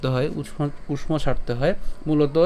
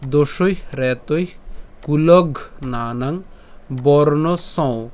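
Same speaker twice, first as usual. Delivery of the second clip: slow recitation in separated chunks; broken-up recitation; much slower than usual. Shown as a demonstration. Teacher breaks the shloka up for learners' ease, slow recitation. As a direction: recite slowly, pausing between the pieces. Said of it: "শ্লোকটিকে আরেকটু ভেঙে দিয়েছি".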